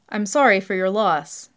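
slow, polite condolence. A narrator's reading. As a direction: offer condolences politely, taking your time. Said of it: "Peter says politely".

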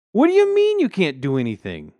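high, loud indignant yell; outraged scream. A narrator's reading. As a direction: scream in disbelief at the exterminator. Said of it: "screamed Rich".

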